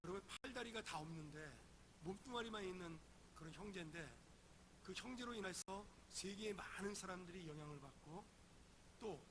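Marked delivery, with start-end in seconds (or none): none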